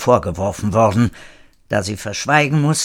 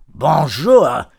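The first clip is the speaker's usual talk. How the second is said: louder, higher scolding exclamation; 5 semitones higher, 5 dB louder than usual. A narrator's reading. Frenchman shoved aside, scolding. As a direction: curse it in French. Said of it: "schimpfte René".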